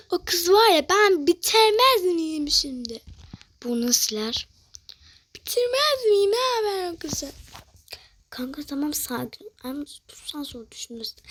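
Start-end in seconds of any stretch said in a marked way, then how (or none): 0.1-3.0 slow, high, drawn-out mock fury; hammed-up indignant outburst; play-acted threat. Acted threat after being hurt. 5.4-7.3 slow, high, drawn-out mock fury; hammed-up indignant outburst; play-acted threat. Acted threat against the girl.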